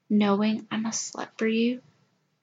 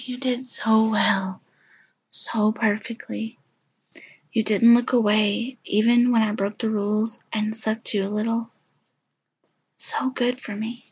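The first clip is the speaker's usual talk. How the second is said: tender whisper. Acted. Praising whisper.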